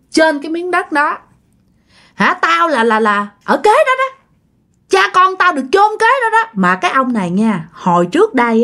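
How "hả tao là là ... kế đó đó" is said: ghost voice. Retold or imitated. Ghost voice retold.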